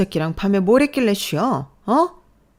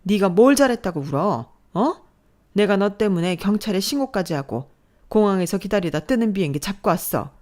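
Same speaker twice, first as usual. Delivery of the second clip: louder, rising berating; angry scolding; 3 semitones higher, 4 dB louder than usual. Acted. Mother berating crying daughter, angry. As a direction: scold her without letting her speak. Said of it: "자신의 화를 주체하지 못하는 모습".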